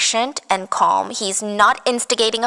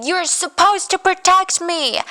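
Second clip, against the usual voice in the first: high, stretched-out retold cry; mock screaming; 9 semitones higher, slower than usual. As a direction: imitate her screamed reproach, high and slow. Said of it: "She starts screaming".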